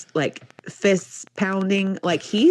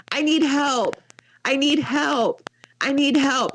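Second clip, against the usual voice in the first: higher-pitched, lightly mimicked child's plea; screaming child; 7 semitones higher than usual. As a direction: imitate a kid insisting over and over. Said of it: "he keeps screaming at me".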